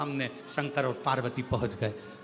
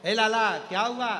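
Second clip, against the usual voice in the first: mother calling out; 4 semitones higher, 4 dB louder than usual. Acted. Mother calls to laughing child.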